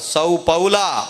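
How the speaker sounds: slow drawn-out shouted name; mock shout. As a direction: bellow the name like an angry governor. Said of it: "గొప్ప శబ్దం అంటే అరిచేస్తున్నాడు". (గట్టిగా అరిచిన పిలుపు)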